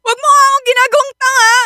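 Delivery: hurt and refusing to be fooled; tearful outburst. Acted. Wife refusing to be made a fool, crying. Wife confronts cheating husband.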